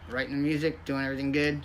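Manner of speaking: talking around a cigarette; cigarette in mouth. Real, not acted. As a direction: speak with a cigarette between lips. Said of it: "Sorry, the cigarette in my mouth".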